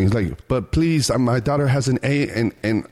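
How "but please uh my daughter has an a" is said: lightly imitated Eastern European plea; Polish or Ukrainian accent. Driver begging for his daughter, mock Eastern European accent. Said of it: "Polish or Ukrainian accent".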